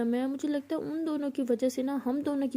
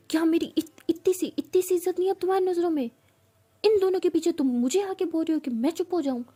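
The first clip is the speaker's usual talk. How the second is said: higher, louder, hurt yelling at her friend; furious outburst; 4 semitones higher, 3 dB louder than usual. Retold or imitated. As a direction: let the betrayal boil over. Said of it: "बहुत ज़्यादा गुस्सा करती है".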